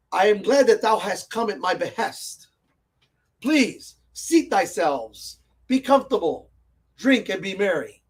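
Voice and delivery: lightly acted old English noble. Shown as a demonstration. Player demonstrates roleplaying a noble welcoming guests, lightly acted noble. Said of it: "if you want to roleplay a noble".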